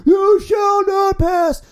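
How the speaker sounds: hammed-up booming wizard shout; Gandalf roar. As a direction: bellow it like the wizard blocking the bridge. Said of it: "I was like".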